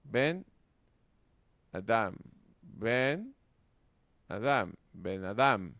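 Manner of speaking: "Ben" held apart, then "Adam" stressed on "dam"; teacher's word-by-word "Ben a-DAM"; stress on second word. Shown as a demonstration. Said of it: "se acentuaría la segunda".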